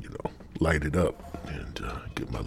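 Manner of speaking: hushed, half-whispered aside. Real, not acted. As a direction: drop to a whisper. Aside about smoking.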